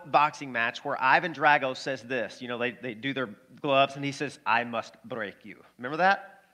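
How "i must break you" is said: put-on low Russian-accented boxer; mock Russian fighter's threat. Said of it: "That's my Russian accent".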